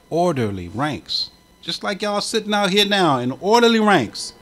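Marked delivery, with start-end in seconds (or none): 0.1-1.3 slow repeat. Shown as a demonstration.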